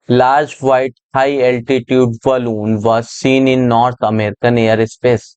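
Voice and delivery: slow, word-by-word reading of an English passage; deliberate classroom read-aloud, each word spaced. Shown as a demonstration. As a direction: read it out slowly so students can follow. Teacher reads passage aloud slowly.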